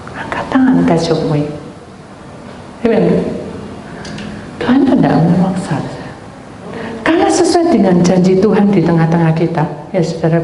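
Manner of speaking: firm, ringing sermon voice; preaching. Acted. Pastor urging the congregation to raise hands, preaching firmly. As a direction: proclaim it to the congregation.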